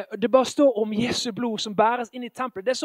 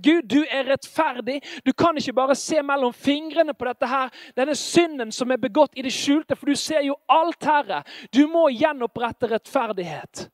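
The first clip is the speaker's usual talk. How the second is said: preaching at full force; 2 semitones higher, 3 dB louder than usual. Acted. Preacher crying out to God.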